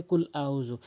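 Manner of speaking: কুল আউযু with a plain front k; wrong pronunciation. Shown as a demonstration. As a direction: say কুল আউযু without the back-of-tongue push. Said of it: "এভাবে ভুল উচ্চারণ করে". (কুল আউযু জিহ্বার গোড়ার ধাক্কা ছাড়া)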